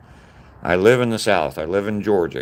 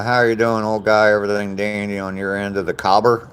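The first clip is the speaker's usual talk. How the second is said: put-on a light playful Australian accent, a bit higher; mock Australian; 3 semitones higher than usual. Streamer reading an Australian viewer's greeting in mock Australian accent. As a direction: greet him like a cheery Aussie mate. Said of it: "I love the way you guys talk".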